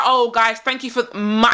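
MY set apart as if italicised; imitated italic MY. Woman thanking the guys, MY emphasised. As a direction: lean on "my", mimicking her. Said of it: "my" with a, you know, italic".

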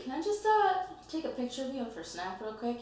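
playfully imitating a coy request; mock flirty ask. To a cute guy, a mock sweet high ask.

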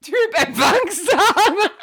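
laughing through words; giggling mockery. Real, not acted. Mocking description while laughing.

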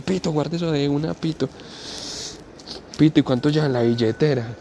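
a hint of a jittery thief urging; nervous robber. The thief telling Pito to put the phone away, hushed and high.

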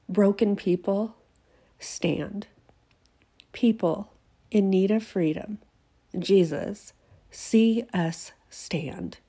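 measured, reverent reading with pauses; spoken-word declaration. Acted. Writer reads her piece to listeners, solemn declaration. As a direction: let each title of Jesus stand alone.

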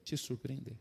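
very slow, low, soft pronouncement; measured divine promise, word by word; voice of God. Retold or imitated. God promising a struggling pastor, slow solemn voice. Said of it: "Deus falou bem assim pra ele".

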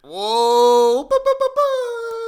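high, loud, slow mock siren of shock; hammed-up alarm, singing the ba's way up high; mock alarmed whoa. Mock alarm at Trump-voter talk.

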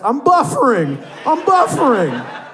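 high, loud comic wail; mock panicked cry. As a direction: cry out helplessly, stuck just short. Acting out a stalled climax.

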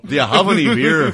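put-on a native american accent that slips toward British. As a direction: try a native american accent, half-hearted. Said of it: "It still sounds British to me".

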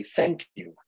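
a bright, high, smiling "Thank you". Retold or imitated. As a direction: thank her sweetly, with a smile in the voice. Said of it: "I've learned to smile and say".

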